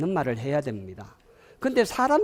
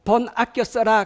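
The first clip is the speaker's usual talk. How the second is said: high, slow admonishment; acted nagging order; 6 semitones higher, 4 dB louder, slower than usual. Someone telling their partner to spend less, nagging. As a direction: issue it as a drawn-out mock scolding.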